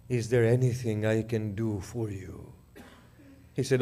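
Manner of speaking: grieving elegy recited to the mourners; lamenting the fall of Abbas; mournful majlis recitation. Acted. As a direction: tell the martyrdom as a lament.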